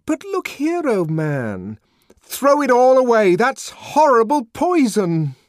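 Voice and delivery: high, loud exhortation; urgent shouted plea; impassioned outburst. A narrator's reading. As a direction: cry out a warning to the crowd. Savage harangues the crowd against soma.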